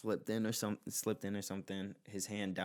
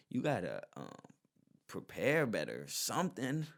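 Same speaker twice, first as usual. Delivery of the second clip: higher and louder, incredulous, slowed on "this is your life"; exasperated rant; 4 semitones higher, 5 dB louder than usual. Real, not acted. Storyteller scolds the clueless old defendant, loud and incredulous. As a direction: shake him awake with disbelief.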